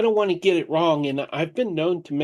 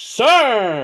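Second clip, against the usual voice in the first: high, loud screamed yell, word stretched out; 6 semitones higher, 7 dB louder than usual. Showing a name written in all capitals, shouting the word Sir. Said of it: "Like he's yelling it at you".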